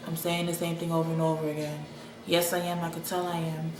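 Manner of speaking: flat, quiet, repetitive droning; monotone voice. Retold or imitated. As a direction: drone it like stuck on loop. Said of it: "I'm talking in a monotone voice".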